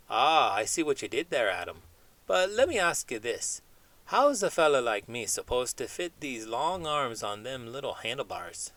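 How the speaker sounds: chatty cartoon chimp dreaming big, not far from own voice; lightly voiced chimp. Chimp puppet chats with host.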